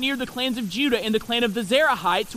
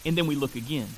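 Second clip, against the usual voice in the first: hushed; 9 semitones lower, 6 dB quieter, much faster than usual. Acted. Preacher dramatizes the second look.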